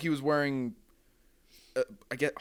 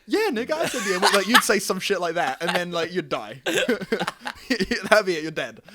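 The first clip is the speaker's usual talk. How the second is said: laughing; 3 semitones higher, 3 dB louder than usual. Real, not acted. Laughing while imagining the scene.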